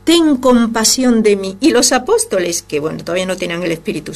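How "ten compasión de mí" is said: crying out. Acted. Blind man begging Jesus from the road, high pleading cry. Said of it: "uno gritando ahí en el camino".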